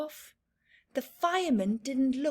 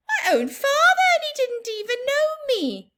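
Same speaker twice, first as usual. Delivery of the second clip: put-on wounded child; 14 semitones higher, 6 dB louder, faster than usual. Sheila indignant.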